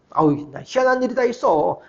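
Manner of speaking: put-on Jeolla-accented friend confiding a curious story; Jeolla dialect. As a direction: lightly imitate a friend's homely Jeolla speech. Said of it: "전라도 사투리 아주 구수하게 쓰는 친구거든요".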